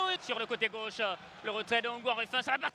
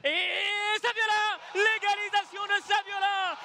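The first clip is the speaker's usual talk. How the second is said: excited goal call; 3 semitones higher, slower than usual. Real, not acted. Equaliser call.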